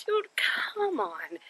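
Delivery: slow, breathless whispered plea; exasperated whisper. Retold or imitated. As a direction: whisper it like you're too tired to deal. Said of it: "it was just like a".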